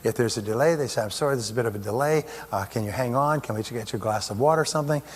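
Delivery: a lightly voiced friendly front desk; cheerful receptionist. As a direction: greet the patient kindly and gently. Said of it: "everybody's cheerful".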